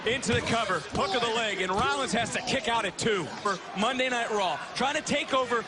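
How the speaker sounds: excited live play-by-play; wrestling commentator. Acted. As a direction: call the match as it happens.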